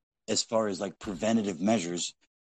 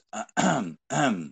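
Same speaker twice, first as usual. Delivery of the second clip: mimicked throat clear. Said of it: "And she goes".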